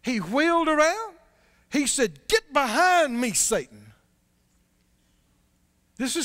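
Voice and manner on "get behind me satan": louder, sharp rebuke dropping on Satan; strong rebuke. Retold or imitated. Preacher voicing Jesus rebuking Peter, a firm stern rebuke. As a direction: wheel round and rebuke him. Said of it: "one of the strongest rebukes".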